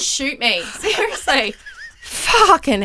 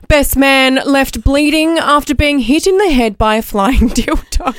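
news anchor voice. Acted. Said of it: "your news anchor voice".

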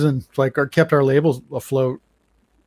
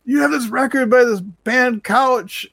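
excited scream; 10 semitones higher, slower than usual. Retold or imitated. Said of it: "starts screaming in the back".

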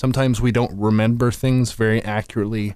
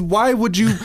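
mock squeal; 12 semitones higher, 4 dB louder than usual.

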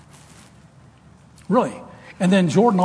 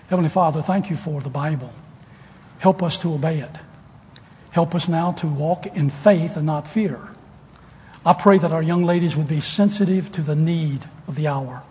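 prayer. Acted. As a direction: pray it unhurried over the congregation. Closing prayer.

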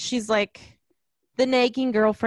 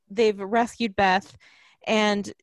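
ordinary talk

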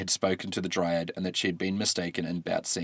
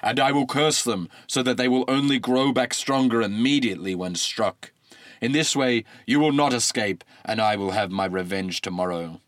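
menacing god. Acted. God cursing the trees.

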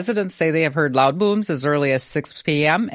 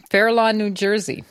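New Jersey accent; 4 semitones higher than usual. Real, not acted. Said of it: "you have to say it in that accent".

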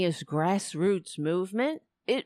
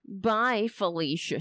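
usual speaking voice

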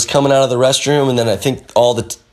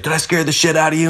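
high, fast taunt; mocking cop taunt, fast and high; 5 semitones higher, faster than usual. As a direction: needle him cheerfully. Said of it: "he's like".

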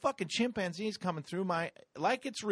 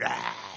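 fleeing cry; 5 semitones lower than usual. Retold or imitated. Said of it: "running from this giant chimp going".

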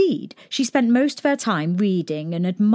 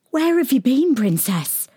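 tearful maid; 7 semitones higher, 3 dB louder than usual. A narrator's reading. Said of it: "with tears running down her cheeks".

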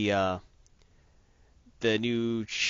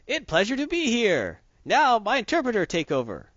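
put-on terrible Mandarin accent; 9 semitones higher, 3 dB louder than usual. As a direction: ham up a foreign businessman. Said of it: "He's, like, speaking Mandarin".

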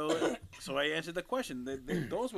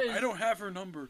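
high, loud mock protest; retold protest; 8 semitones higher, 6 dB louder than usual. Man explaining he lacks her number, high mock protest. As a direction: squeal the excuse through amusement. Acting out another man's reply.

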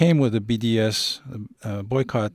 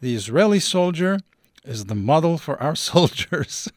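quoting a general's boast, raised and a bit louder, breaking into a laugh; proud quote; 4 semitones higher, 4 dB louder than usual. Retold or imitated. Interviewer quoting a general's proud boast, mock-proud. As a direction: read out the boast with ironic pride, laughing at the end. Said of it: "proudly said, quote".

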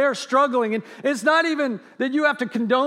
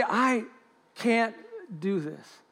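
fading surrender; 6 dB quieter, slower than usual. Acted. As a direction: start soft and fade to almost nothing by do this. Voicing surrender in prayer.

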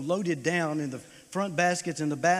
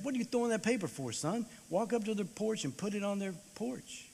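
higher, fast, puzzled father; a father's quick scolding challenge; dad asking his son why he throws the paper; dad's stern question; 6 semitones higher, 4 dB quieter than usual. Retold or imitated. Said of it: "and my dad said".

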